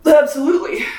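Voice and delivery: a high, loud, emphatic yes; mock-scold yourself; high emphatic self-scold; self-mocking emphasis. Real, not acted. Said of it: "should I have?".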